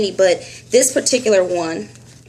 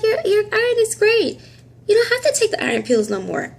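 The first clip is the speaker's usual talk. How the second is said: imitating the doctor; 13 semitones higher than usual. Doctor's voice in retold scene.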